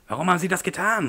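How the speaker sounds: frightened cry. Acted. Lee cries out at the man who smashed his glasses, high alarmed outcry. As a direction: cry out in shock at the damage. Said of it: "rief Lee".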